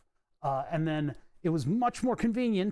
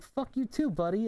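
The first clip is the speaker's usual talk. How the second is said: sarcastic comeback pitched way up; mock retort; 6 semitones higher than usual. Coworker snapping back at the boss who spilled coffee, mock high retort. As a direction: fire it back at the boss with fake cheer.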